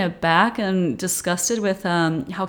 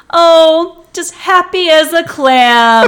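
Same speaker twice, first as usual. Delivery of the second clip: folksy film quote; 8 semitones higher, 10 dB louder, much slower than usual. Retold or imitated. Acts out a film line.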